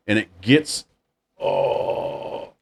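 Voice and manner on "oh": into a fan. Real, not acted. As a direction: voice chopped by a spinning fan. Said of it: "it's like I'm talking into a fan".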